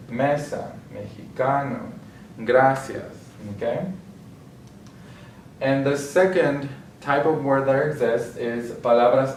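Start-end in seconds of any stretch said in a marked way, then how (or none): 0.1-3.2 "Mesa, mexicano, gracias" with ME, CA, GRA stressed; penultimate stress. Shown as a demonstration. Teacher repeating examples to show the rule, "Mesa, mexicano, gracias" stressed second to last. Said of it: "stress on the second to last syllable".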